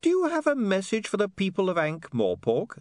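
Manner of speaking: high, mock-innocent sweetness; sugary reporter's question; sweetly. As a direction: ask it sweetly, pitched well up. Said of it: "said William sweetly".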